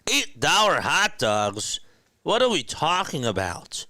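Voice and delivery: high-pitched indignant disbelief; hammed-up incredulous protest; mock outrage. Mock outrage at ballpark prices.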